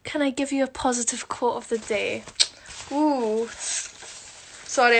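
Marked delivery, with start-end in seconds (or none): 2.9-5.0 nose-blowing while talking; muffled by a tissue at the nose. Real, not acted. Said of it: "I'm blowing my nose".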